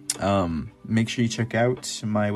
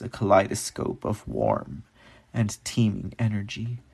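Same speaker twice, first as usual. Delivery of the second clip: poem reading. Acted. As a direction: let each image hang in the air. Reads own poem over music.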